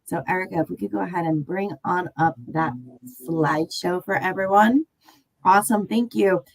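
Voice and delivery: stuffy nose, talking through congestion; nasal congested voice. Real, not acted. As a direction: speak with blocked nose and hoarse throat. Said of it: "I might sound a little nasally".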